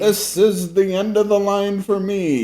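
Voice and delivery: high, slow put-on British voice; a theatrical British officer, overdone and slow; bad British impression. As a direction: ham up a dramatic British officer line. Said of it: "I can't do that voice".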